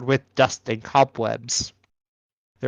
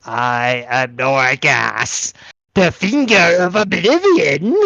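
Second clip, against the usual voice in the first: ominous sarcophagus voice; slower than usual. Acted.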